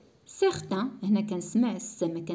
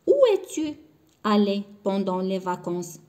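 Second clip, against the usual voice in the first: slow dictation; 4 dB louder, much slower than usual. Shown as a demonstration. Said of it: "teacher reads French example slowly".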